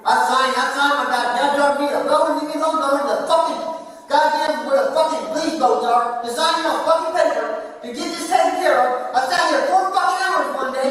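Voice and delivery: rising, heated rant at the officers; angry rant. Real, not acted. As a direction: arrestee raging at officers for ignoring him. Arrestee ranting, voice rising.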